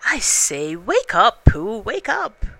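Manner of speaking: calling to wake him. Acted. Piglet waking Pooh from his honey dream, loud call. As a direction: shake a dreaming friend awake with your voice.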